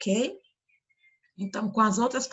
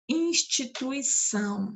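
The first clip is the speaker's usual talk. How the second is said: "Instituição" repetido devagar, separando o ÇÃO final; ênfase na última sílaba; 3 semitones higher, slower than usual. Shown as a demonstration. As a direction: pronuncie "Instituição" pausadamente até o ÇÃO tônico. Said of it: "são é a sílaba mais forte". ("Instituição" silabado, com o ÇÃO alongado)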